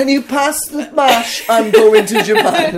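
mocking the casual dinner announcement, laughing; casual mock nonchalance. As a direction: toss it off like nothing. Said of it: "and I was like".

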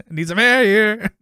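high, loud drawn-out mock cry; overloaded George. Retelling George's gasp to the camera, mock overloaded. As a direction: stretch it out high and loud, overheated. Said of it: "George is just overloaded. He's, like, heating up".

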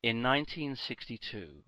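low, soft dramatic voiceover; trailer voiceover. Pretend. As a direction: intone it like the A-Team intro. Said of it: "Now I'm doing it like the".

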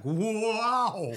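loud, high drawn-out wow; mock amazed gawking. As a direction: gawk out loud like a rubbernecking driver. Imitating a gawking driver.

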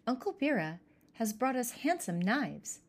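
put-on a kid thrilled with a present; exclaiming. Pirka to his siblings about the knives, mildly excited. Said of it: "exclaimed Pirka".

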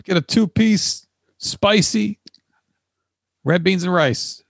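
high, slow put-on voice; a customer ordering chicken; drive-thru order. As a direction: drawl out the order. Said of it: "They pull up".

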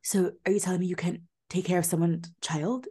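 half-whispered mock accusation from Mia; imitating Mia, breathy. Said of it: "She's like".

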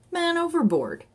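high-pitched bawl; urgent top-of-the-voice cry, narrator's version; bawled alarm. A narrator's reading. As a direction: call out as if to the whole park. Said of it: "he bawled at the top of his voice".

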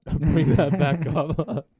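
loud, slow words broken by real laughter; laughing deflection. Real, not acted. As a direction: laugh through the request to drop it. Embarrassed laugh at crude topic.

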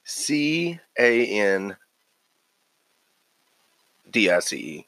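C A N D I C E spelled letter by letter, slowly; spelling it out. Shown as a demonstration. Cohost spelling the name for the host, slowly, letter by letter. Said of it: "how would you spell Candace".

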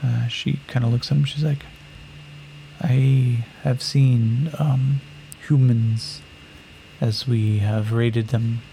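very slow, deliberate formal speech; warrior woman. Acted. Greedy warrior woman tells Yakim they are property, slowly. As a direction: weigh each word while working an angle.

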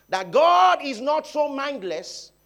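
high, loud, slowed preaching; fiery sermon peak; preaching shout. Real, not acted. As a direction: lift it to a full pulpit cry. Preacher rising to full force.

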